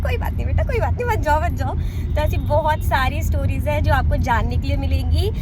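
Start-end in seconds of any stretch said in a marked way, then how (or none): 0.0-1.7 lightly acted, indulgent reassurance, pitched up; pampering aunt. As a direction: imitate a doting aunt letting a child off. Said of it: "बहुत pamper करके रखती थी".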